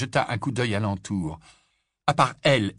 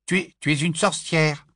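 put-on louder, stumbling eager boy; eager stammer; 7 semitones higher, 5 dB louder than usual. Nervous boy tells the girl, louder and stammering. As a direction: blurt it out, tripping over words. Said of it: "dit Rogue à Lily".

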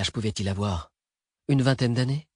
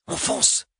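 whispered command to go; hushed, voiceless urging; breathed urgent whisper. A narrator's reading. Cyrian urges companions to flee after the shooting, urgent whisper. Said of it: "souffla Cyrian".

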